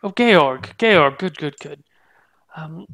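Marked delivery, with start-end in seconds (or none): 0.0-1.8 eager greeting. Acted. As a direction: greet him with relief. Mildred greets Georg eagerly.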